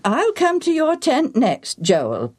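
kindly. A narrator's reading. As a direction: gently reassure a flustered boy. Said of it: "Priest Azariah said kindly".

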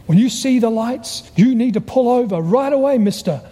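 mock-mad police officer. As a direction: scold like an annoyed traffic cop, mildly hammed-up. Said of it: "and he was mad".

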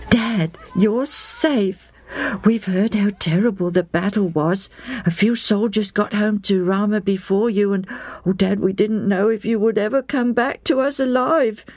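put-on a boy relieved his dad is back; boy's voice. A narrator's reading. Sons greet father.

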